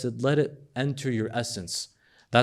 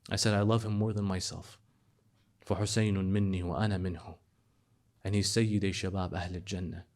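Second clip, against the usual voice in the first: softer, hushed and grieving; hushed tenderness; 6 semitones lower, 7 dB quieter than usual. Acted. The Prophet and Ali speak softly of Hussein. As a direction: speak low, as if holding back tears.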